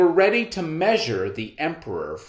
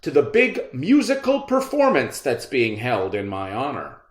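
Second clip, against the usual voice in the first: vain emperor; 2 semitones higher than usual. Acted. Emperor continues command.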